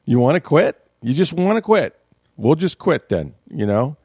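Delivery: half-hearted imitation of a pleading quarterback; a hint of a fired-up quarterback begging his team; mock pleading Brady. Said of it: "he was pleading with them".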